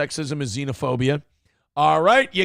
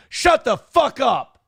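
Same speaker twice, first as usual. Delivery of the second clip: mild mock yell; 7 semitones higher, slower than usual. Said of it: "turns around and goes".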